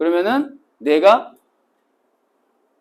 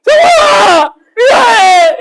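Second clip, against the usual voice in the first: much higher, louder, crying out the name; a student sobbing out his own name mid-squat; sobbing shout; 10 dB louder, much slower than usual. Retold or imitated. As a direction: wail the apology through sobs. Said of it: "막 흐느껴".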